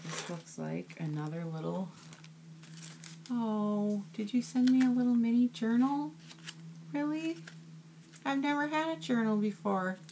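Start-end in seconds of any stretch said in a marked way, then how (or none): 3.3-10.0 high, moved voice on the edge of tears; choked up with delight at a surprise gift; touched, near tears. Real, not acted. Opening a handmade mini journal from a friend, teary and high. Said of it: "You're gonna make me cry".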